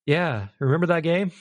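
subdued, lightly acted disappointment; let-down reminiscing. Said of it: "Now I'm gonna look back and like".

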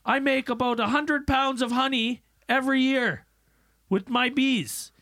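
a hint of a country beekeeper; imitating a hillbilly beekeeper at a town hearing. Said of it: "he goes".

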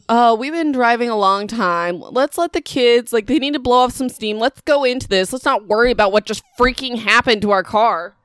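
mock the oblivious mom brushing it all off; breezy Karen mom. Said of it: "the mom says".

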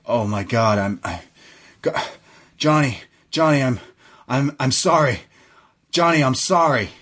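halting apology, imitating a shattered man; acted stammering remorse; broken, stammering. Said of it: "He's just broken".

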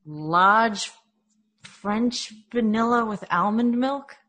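put-on Dunkin' order in a Boston accent. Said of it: "you have to do the Boston accent".

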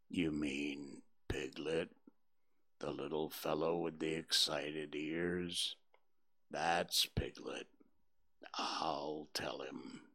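low, slow, soft donkey voice; gloomy Eeyore. Acted. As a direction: mope through it like a gloomy old donkey.

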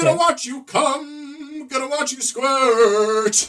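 high, slow creepy pervert voice; heavy breathing phone whisper. Pretend. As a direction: drag it out like a creepy caller. Creepy stalker joke.

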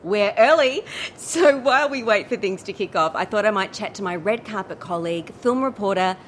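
bubbly entertainment reporter patter; chirpy red carpet presenter; gushing red carpet chatter. Acted.

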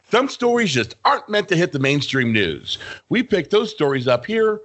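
slow, dramatic show intro; announcer voice. Pretend. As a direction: announce the segment grandly. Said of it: "I do do a good announcer voice".

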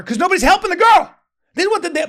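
high, loud and fast; urgent outburst. Real, not acted. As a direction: push it out with alarm. Urgent plea while retelling the fight.

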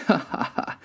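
high mock "ha ha ha"; pigs' laugh. A narrator's reading. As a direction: laugh like a carefree storybook pig. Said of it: "laughed the two lazy little pigs".

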